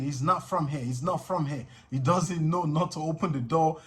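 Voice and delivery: begging. Retold or imitated. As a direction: plead for his life, scared. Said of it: "I was begging".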